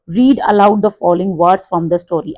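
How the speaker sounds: reading the instruction out slowly and clearly; teacher reads the book line aloud to the class, slow and careful; slow textbook read. Acted. Class ko instruction dheere dheere padhkar sunati teacher, saaf aur dheemi.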